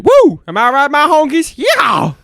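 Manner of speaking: redneck cheer. Retold or imitated.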